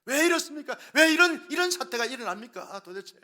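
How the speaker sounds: plead, then burst out in protest; complaining to God. Retold or imitated. Pastor voicing citizens blaming God, pleading turning to outburst. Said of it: "하나님께 원망하고 불평합니다".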